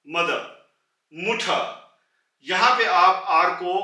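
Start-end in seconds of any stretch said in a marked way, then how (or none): 1.1-1.6 मुठा ending on an open आ, with no R; silent final R. Shown as a demonstration. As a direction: drop the R and end मुठा on आ. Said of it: "almost pronounce ही नहीं करेंगे". (मुठा, अंत में आर बिल्कुल नहीं)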